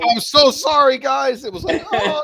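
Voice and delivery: high, loud, laughing sorry; apologizing to the team for switching sides, high and laughing; laughing mock apology. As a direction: wince through an apology to the team. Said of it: "I'm like".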